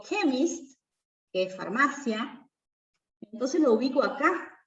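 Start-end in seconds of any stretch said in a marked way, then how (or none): 0.0-0.8 "chemist" said in English with a hard K at the start; English word demo. Shown as a demonstration. Teacher showing that CH can sound like K. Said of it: "Si digo".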